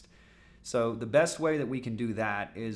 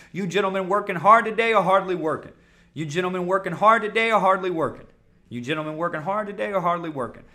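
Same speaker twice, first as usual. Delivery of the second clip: 1 tag; 6 semitones higher, 8 dB louder, faster than usual. Acted. Joking opener to prospect.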